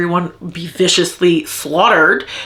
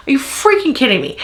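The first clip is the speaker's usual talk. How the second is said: faster repeat of freaking kidding me; exasperated faster; 3 semitones higher, faster than usual. Real, not acted. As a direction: rush the repeat, more exasperated. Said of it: "I'm so mad right now".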